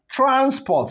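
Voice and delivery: Transport with TRANS high, PORT falling; stress on first syllable. Shown as a demonstration. Teacher repeating the noun, first-syllable stress on Transport. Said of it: "here on the first syllable".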